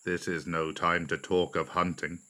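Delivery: lightly voiced elephant, low and soft; a low, gurgling reproof; Hathi. A narrator's reading. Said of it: "gurgled Hathi".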